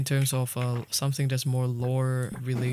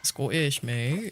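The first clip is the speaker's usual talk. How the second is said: Scottish, mate, coming out Australian; a botched Scottish accent that slips into Australian; failed Scottish accent; much slower than usual. Shown as a demonstration. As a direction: try Scottish, land in Australian. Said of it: "that's, that's Australian".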